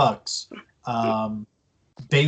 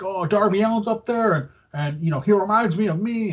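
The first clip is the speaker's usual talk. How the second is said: mock gushing, lightly raised; excited gushing; 5 semitones higher than usual. Sting spotting Darby Allin up there, excited gushing. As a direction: imitate an overexcited star rambling happily. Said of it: "He's all excited".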